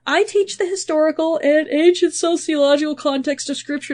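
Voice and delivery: words stretched by a yawn. Real, not acted. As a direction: talk through a yawn. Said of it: "listen to me yawning".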